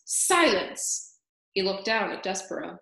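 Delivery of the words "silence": roared. A narrator's reading. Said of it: "roared the most very honored head mouse".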